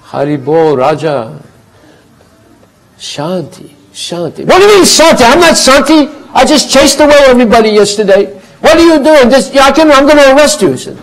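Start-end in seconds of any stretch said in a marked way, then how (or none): 0.0-4.4 calm smile. Acted. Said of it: "looked at him and smiled and said". 4.4-10.7 very high, loud indignant shouting; king yelling threats at the calm sadhu; furious king. Acted.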